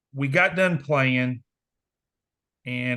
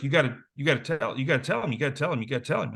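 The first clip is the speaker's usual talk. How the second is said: faster and faster, imitating a nervous friend; nervous urging; much faster than usual. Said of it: "Sean's just nervous wreck".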